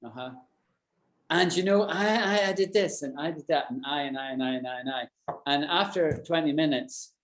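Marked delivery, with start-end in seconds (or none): 0.0-5.0 mock self-absorbed chatterer. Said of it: "if you said to me".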